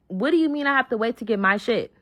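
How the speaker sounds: mild indignant challenge; first, measured take of an angry demand; retold going off. Told to wait for her belongings, mildly indignant. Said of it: "I'm in the car going off".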